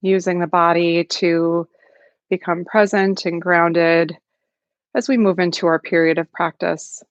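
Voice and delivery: calm, unhurried meditation guidance with long pauses; guided meditation. Acted. Facilitator settling an online group into practice, calm guided meditation. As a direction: gently settle listeners into the practice, leaving space between phrases.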